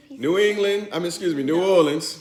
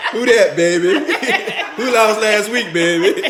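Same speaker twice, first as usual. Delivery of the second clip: laughing taunt; 3 semitones higher, 3 dB louder than usual. Real, not acted. Taunting friend over the loss.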